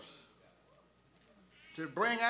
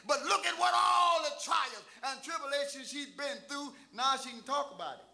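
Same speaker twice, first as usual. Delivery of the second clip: sustained, driving sermon delivery building to a shout; fervent preaching; 2 semitones higher than usual. Real, not acted. Preacher testifying to the congregation about a daughter-in-law, fervent preaching. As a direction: preach it with mounting force.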